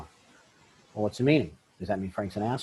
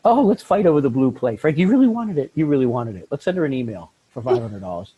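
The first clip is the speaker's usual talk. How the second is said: mock petty bickering; 7 dB louder than usual. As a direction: ham up a spiteful ex picking a fight. Mocking divorcing couple's petty fight.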